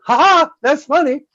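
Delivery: playful, hammed-up mockery; mock teasing laugh. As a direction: tease the victim of your prank. Acts out the kids teasing her.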